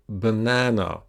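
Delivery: banana with a long, clear middle syllable; stress on second syllable. Shown as a demonstration. Teacher showing learners the longer vowel, stressed middle syllable in banana. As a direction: stretch the middle of banana, first and last short. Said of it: "second syllable sounds different".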